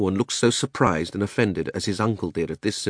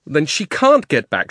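loud, higher, alarmed protest; shouted; 8 semitones higher, 6 dB louder than usual. A narrator's reading. Diggory realises Polly is stranded, shouting. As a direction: shout the accusation slowly and hard. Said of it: "shouted Diggory".

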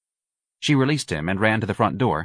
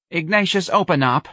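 pleading; 9 semitones higher than usual. A narrator's reading. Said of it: "Missus Riley pleaded".

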